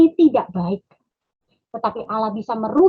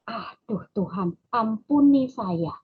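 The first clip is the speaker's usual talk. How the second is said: tearful prayer; 3 dB quieter, slower than usual. Real, not acted. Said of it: "saya merasa".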